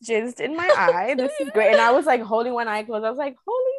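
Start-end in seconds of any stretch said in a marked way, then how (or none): 0.1-1.7 slow, deadpan then a high squeak; sarcastic retold shock; mock sarcastic. Retold reaction to eye mishap. 3.4-3.7 high startled exclamation; high retold yelp of surprise; mock shock. Retold shock, eye hurt.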